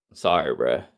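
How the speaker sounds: low, soft mock apology; imitated hushed, low-key sorry; quiet apology. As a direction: say it small and private. Voicing a private apology text.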